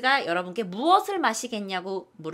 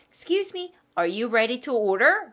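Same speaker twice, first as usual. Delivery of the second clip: slow, polite, order rising; waiter asking; much slower than usual. Acted. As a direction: play a waiter taking orders. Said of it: "라고 물을 거예요". (손님에게 묻는 웨이터처럼)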